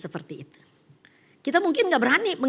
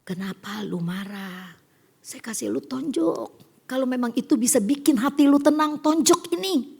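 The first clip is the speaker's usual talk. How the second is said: gentle challenge. Retold or imitated. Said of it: "dikasih hikmat".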